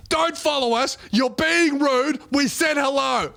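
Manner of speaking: high, slow firm telling-off; stern rebuke. Retold or imitated. Rapper friend warns the drunk before slapping him, slow stern rebuke. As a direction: lay down the law, slowly. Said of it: "Greeley turns around and goes".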